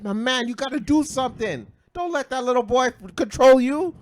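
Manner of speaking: high-pitched, insistent appeal; exasperated urging, retold. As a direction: implore the father to take charge. Acted urging of the passive father.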